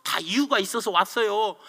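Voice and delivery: reply plainly to an angry brother; simple calm reply. Retold or imitated. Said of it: "화가 나 있는 형에게 간단하게".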